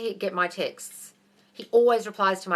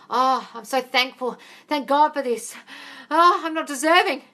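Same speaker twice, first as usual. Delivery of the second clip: mock thankfulness; 4 semitones higher, 5 dB louder than usual. Coach parodying what grateful implies, hammed-up undeserving thanks. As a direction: overplay humble, undeserving gratitude. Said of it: "Grateful is implying, like".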